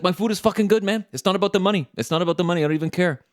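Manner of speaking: high, pushed ranting owner; manic ranting owner. Retold or imitated. Owner venting to diners about his ratings, high manic rant. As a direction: rant like a boss at his wit's end. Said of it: "He's like".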